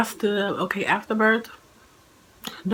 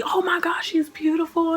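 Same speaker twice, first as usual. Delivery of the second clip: high, breathless whisper of wonder; a new mother whispering at her first sight of the baby; awed whisper; 10 semitones higher than usual. Retold or imitated. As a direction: gasp it out, overwhelmed.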